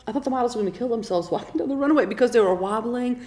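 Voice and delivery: strained, voice giving out; losing voice. Real, not acted. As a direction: speak through a failing throat. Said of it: "Poor thing's choking".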